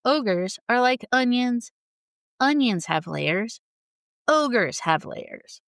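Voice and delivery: slowly quoting Shrek's onion line; Shrek quote. Retold or imitated. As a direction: lay out each layer slowly like Shrek. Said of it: "the classic Shrek line".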